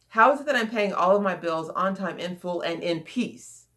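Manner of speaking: "in peace" slowed and given the weight; stress on IN PEACE. Shown as a demonstration. Coach finishes demonstrating the question, stress on "in peace". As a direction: stretch out "in peace" at the end. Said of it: "stressing different words in the question".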